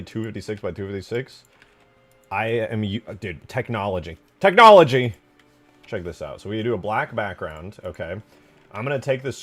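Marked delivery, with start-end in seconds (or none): 4.4-5.1 high, booming one-word shout; exuberant shout. Real, not acted. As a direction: yell it out like a triumphant cheer.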